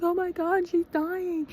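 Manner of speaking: high, loud mock panic. Boyfriend panicking that his sick girlfriend is dying, mock panic.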